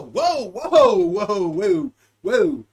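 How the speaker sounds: high, loud squealing whoas; high mock-panicked whoa; squealed whoa. Calming the brain, squeals.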